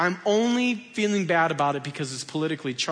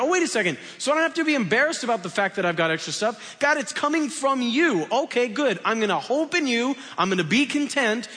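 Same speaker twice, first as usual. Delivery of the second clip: higher, fast, delighted surprise; relieved realization; 6 semitones higher than usual. Pretend. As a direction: act it like a penny dropping, lifted up. Tim answers God, relieved.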